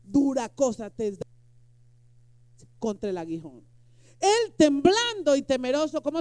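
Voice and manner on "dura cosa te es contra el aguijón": voice of Jesus. A narrator's reading. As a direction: proclaim it like the Lord speaking. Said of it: "Y le dijo". (voz de Jesús, fuerte y lenta)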